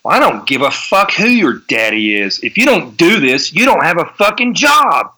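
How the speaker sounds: imitating a boss chewing someone out, rising; retold phone rant, climbing in pitch; mock yell. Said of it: "he just yelled out".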